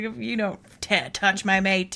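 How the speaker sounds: put-on pissed-off, seething, furious voice, stumbling over words. Retelling a character's reply when he is pissed: imitating seething anger. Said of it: "Rhys is seething. He's pissed".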